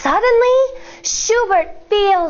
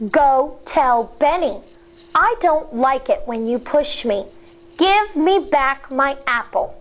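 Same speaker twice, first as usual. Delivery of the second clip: slow, firm voice. Acted. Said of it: "In a slow, firm voice".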